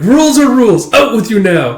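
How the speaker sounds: put-on high, loud bratty boy; bossy kid. Boy kicking Anya out of the game, bratty high voice. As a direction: boss her out like a smug little brat.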